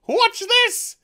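high, loud laughing watch this; can't wait to show it; excited laughing. Real, not acted. Reviewer laughing at the truck scene, excited.

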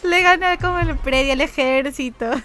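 high, slow words broken by real laughter; laughing while talking. Real, not acted. Streamer celebrating his win live, laughing through the words.

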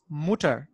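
"Mutter" with an oo vowel and hard T; careful teacher's model of "Mutter"; German U as OO. Shown as a demonstration. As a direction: say Mutter as moo-ter. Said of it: "So, the pronunciation is".

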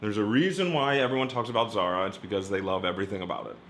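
talking with gum in mouth; words around a wad of gum; chewing gum. Real, not acted. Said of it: "Sorry, I have gum in my mouth".

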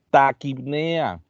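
"Taquipnea" dicho muy despacio, sílaba a sílaba; término recalcado. Shown as a demonstration. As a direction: subraya "Taquipnea" alargándola. Teacher stresses key term. (profesor remarca la palabra clave a la clase, muy lento)

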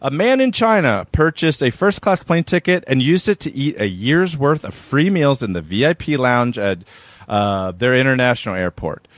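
presenter-style read-aloud; news article read. Acted. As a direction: read the article out with emphatic phrasing.

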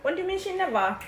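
mock British accent, lightly done; a kid faking a British accent; put-on British accent. Sister teased for her mock British accent. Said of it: "Stop talking that way".

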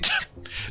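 high laugh. Real, not acted. Reacts to chat message.

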